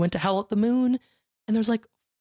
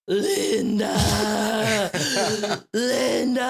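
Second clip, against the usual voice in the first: laughing through the name; 4 semitones higher, much slower than usual. Retold or imitated. Voicing scene partner Charlie.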